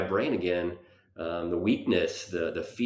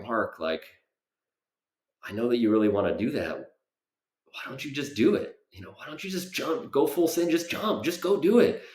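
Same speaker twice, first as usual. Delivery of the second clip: pushy inner voice, much higher; 5 semitones higher than usual. Retold or imitated. His own head urging him to go to jujitsu, high and pushy. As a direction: egg yourself on in a high urging voice. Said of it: "something in my head ... that's just like".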